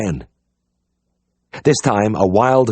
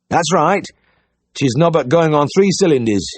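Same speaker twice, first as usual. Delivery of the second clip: cheery high farmer's voice; bright, keen country caller; eager Yorkshire farmer; 7 semitones higher than usual. A narrator's reading. Farmer at the door, cheerfully asking for the vet.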